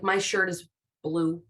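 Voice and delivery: "My shirt is blue" as a low, simple statement; "My shirt is blue" ending like a period; plain statement. Shown as a demonstration. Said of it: "We're just telling something".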